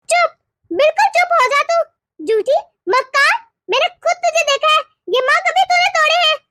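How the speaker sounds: mother-in-law's cross rebuke; angry scolding. Acted. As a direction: silence her crossly, then accuse. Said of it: "ये क्यों मुझे इतना डांट रही हैं".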